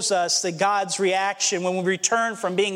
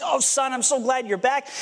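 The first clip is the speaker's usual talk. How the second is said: overjoyed father; 3 semitones higher than usual. Retold or imitated. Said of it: "sobbing and saying".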